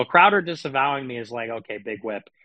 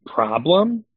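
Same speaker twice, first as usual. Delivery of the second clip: taunting; 3 semitones higher, 4 dB louder than usual. Pretend. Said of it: "taunting repeated question".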